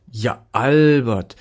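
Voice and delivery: a jovial vet welcoming a patient; lightly voiced hearty doctor; friendly doctor. Doctor greets the dog.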